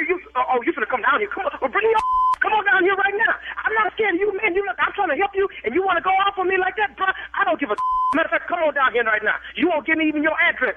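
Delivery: heated comeback. Real, not acted. Business owner dares the threatening caller to show up, heated. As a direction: dare him to come down.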